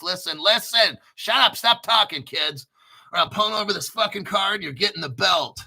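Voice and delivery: angry dad. Pretend. Angry parent yelling at kids in car.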